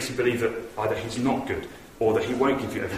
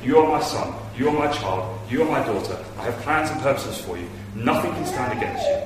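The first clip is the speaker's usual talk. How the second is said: urgent encouragement; 4 semitones higher, 4 dB louder than usual. Acted. Preacher voicing Jesus' encouragement.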